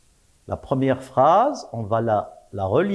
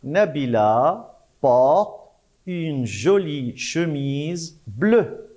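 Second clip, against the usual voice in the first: slow rereading for the class, stretching the end; slower than usual. Shown as a demonstration. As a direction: read it back slowly, word by word. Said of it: "Je relis la phrase". (relecture lente et appuyée)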